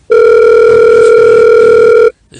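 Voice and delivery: very low, slow goofy voice; deep silly voice. Pretend. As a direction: drop into a dumb low voice. Mock deep stretched joke voice.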